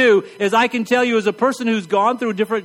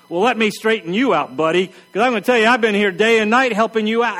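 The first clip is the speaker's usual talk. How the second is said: self-righteous. Retold or imitated. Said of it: "self-righteous in your indignation".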